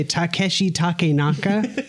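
Takeshi Takenaka said slowly with a flat American accent; "Takeshi Takenaka" with American vowels, slow and careful; American-accented name. Shown as a demonstration. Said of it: "do I expect you to say that with the accent".

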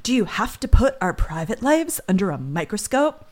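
lightly mock whiny complaint; whining. Host mimicking the husband complaining to detectives, mildly whiny. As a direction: whine it half-heartedly like a sulky rich guy. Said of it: "and then he starts whining".

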